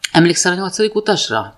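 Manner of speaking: lifted, grinning question; asked grinning widely. A narrator's reading. Date springing a film reference on her, grinning. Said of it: "kérdezte széles vigyorral".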